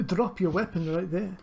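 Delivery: lightly put-on French accent; guard's order in a shaky attempt at a French accent. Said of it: "What's wrong with my French accent?".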